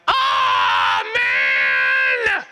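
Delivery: put-on disappointed kid. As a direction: whine like a kid not picked. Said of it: "they're like".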